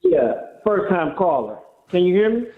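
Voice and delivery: muffled phone line; underwater. Real, not acted. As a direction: caller on a bad speakerphone. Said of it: "it sounds like you're underwater".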